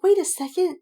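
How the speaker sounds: high, loud, laughing disbelief; incredulous disbelief. Retold or imitated. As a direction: shriek at the plot hole, half laughing. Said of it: "it's like".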